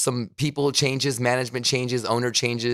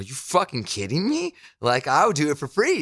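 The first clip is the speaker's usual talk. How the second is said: disbelieving excitement; 4 semitones higher than usual. Retold or imitated. Retells his reaction to the job offer.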